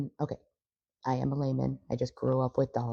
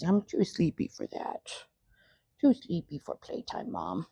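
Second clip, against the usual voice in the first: lightly voiced dog, a bit higher; sleepy dog voice; 3 semitones higher than usual. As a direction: speak as the drowsy dog. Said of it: "Bear says".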